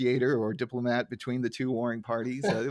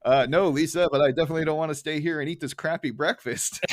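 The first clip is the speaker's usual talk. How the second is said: Homer impression; 3 semitones higher, 4 dB louder than usual. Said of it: "he's like".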